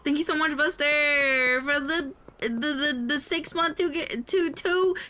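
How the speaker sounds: thanks building to a squeal; excited thanks. Real, not acted. Thanking a subscriber, voice climbing.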